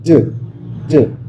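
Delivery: "ड" as a short voiced sound; isolated, resonant "ड"; resonant sound demo. Shown as a demonstration. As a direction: let the throat buzz on "ड". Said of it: "ये वो आवाज़ है".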